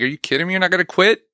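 tough inner voice. Retold or imitated. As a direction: bark at yourself like a coach who won't let you quit. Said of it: "this voice in my head".

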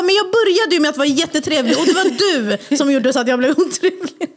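high-pitched mock indignant comeback; härmat gräl. Återberättat gräl, han försvarar sig. (spelat förnärmad med höjd röst)

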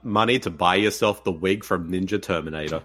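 deep dad voice; low fatherly voice. Pretend.

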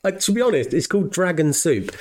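high, laughing squeal; giggling high through the words. Real, not acted. Laughing high-pitched outburst over cans.

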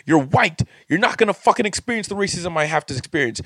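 reliving the fury at the condo board, fast and sharp; retold angry rant. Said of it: "That's how I was talking".

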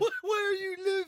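high, drawn-out shout of disbelief; exasperated shout. Real, not acted. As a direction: shout it high, stretching the words. Exasperated at a failed quiz answer.

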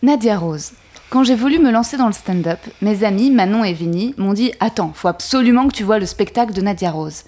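lightly performed letter reading; reading aloud. Acted. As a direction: read it like a tribute. Reads her poem-letter to Nadia.

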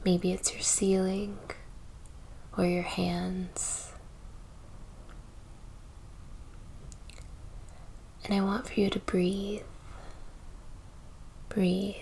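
soft, unhurried meditation voice with long pauses; slightly hushed, spacious delivery, letting each phrase settle; guided meditation. Acted. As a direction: gently guide the listener into breath and stillness.

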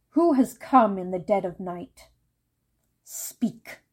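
a lightly voiced guarded old woman; wary voice behind door. A narrator's reading. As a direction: challenge the late visitor through the door. Grandmother answers knock at night.

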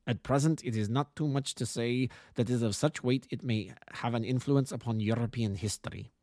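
lightly voiced formal Bohemian nobleman with German accent; a touch of a harsh German-accented aristocrat; German-accented count. Client introducing himself to the detective, lightly voiced German-accented count. Count swears both to secrecy.

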